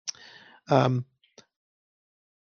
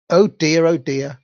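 dismayed; 2 semitones higher, 4 dB louder than usual. Acted. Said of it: "cried Matilda's mother".

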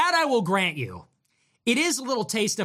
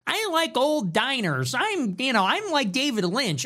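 higher-pitched, mock-precious diner fan; mock diner poser; 6 semitones higher than usual. Mimicking hipsters who claim personality, mocking. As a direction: play the poser with a raised voice.

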